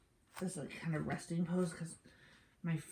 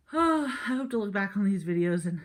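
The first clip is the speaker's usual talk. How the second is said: strained; 3 semitones higher, 10 dB louder than usual. Real, not acted. Talking while straining in pose.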